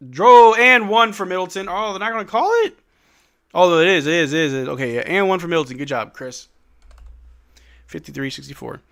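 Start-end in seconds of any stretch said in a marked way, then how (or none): 0.1-1.7 higher, louder and-one shout; hyped sportscaster calling the foul; excited call. Acted. Big call on scoring play. 1.7-5.8 fast, louder announcer voice; quick lively sportscaster call; play-by-play call. Acted.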